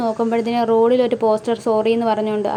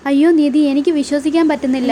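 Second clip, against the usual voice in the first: mildly acted surprise; 2 semitones higher than usual. Greeting Nidhi on her unexpected return, mildly surprised. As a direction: exclaim in light disbelief.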